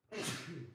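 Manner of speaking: single sneeze. Real, not acted. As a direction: let out a sneeze. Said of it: "There it goes".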